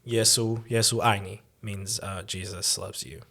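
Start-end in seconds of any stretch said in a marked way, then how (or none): 0.1-1.4 Yesu ai ni said in Mandarin tones; Mandarin phrase. Shown as a demonstration. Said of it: "Can you say something for us".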